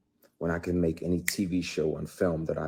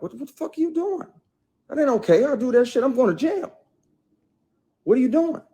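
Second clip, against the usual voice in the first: loud, much higher furious shout; retold angry shout; 7 dB louder, faster than usual. Confronting the actress on set, loud outraged yell. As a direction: yell at her to stop, outraged. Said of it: "checked her, like".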